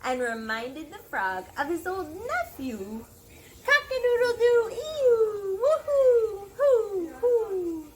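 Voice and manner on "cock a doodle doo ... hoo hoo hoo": high, loud, fast animal cries; animal chorus. Acted. Barn animals all crying out, loud. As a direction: rattle off every animal call.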